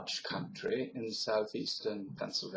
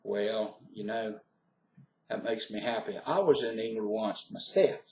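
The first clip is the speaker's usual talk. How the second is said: easygoing Southern voice; Southern US accent. Shown as a demonstration. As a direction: share it like a friendly Southerner. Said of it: "so that's my southern accent".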